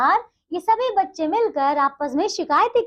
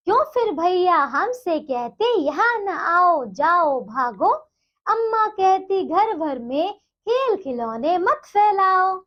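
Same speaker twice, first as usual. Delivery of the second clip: slow, measured sing-song reading of the verse; poem recitation; slower than usual. Acted. Teacher reciting the poem to young pupils, slow and rhythmic. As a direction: draw each line out like reciting a poem to a class.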